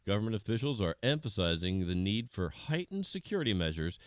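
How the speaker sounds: measured anchor delivery of breaking news; news read. Acted. News anchor briefs viewers on the lab breach, in a formal news read. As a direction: read it like an evening news bulletin.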